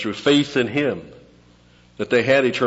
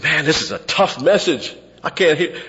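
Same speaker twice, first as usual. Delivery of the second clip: high put-on grumble of followers; mock complaining disciples; 8 semitones higher, 4 dB louder than usual. Disciples walking away from a hard message, mock whine.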